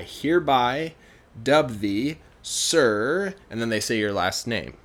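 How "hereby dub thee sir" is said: lightly acted royal proclamation; slow, measured words of knighting; ceremonial dubbing. King taps a shoulder with a sword, mild ceremonial tone.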